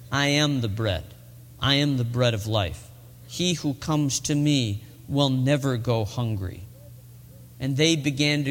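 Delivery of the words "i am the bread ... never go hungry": low, measured declaration; solemn declaration. Acted. Jesus declaring himself to the crowd, solemn and low. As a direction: declare it gravely, well below usual pitch. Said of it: "And Jesus declared".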